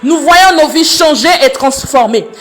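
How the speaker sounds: impassioned praise to God, voice pitched well up; fervent prayer. Real, not acted. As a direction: pray aloud with mounting fervour, pitch climbing high.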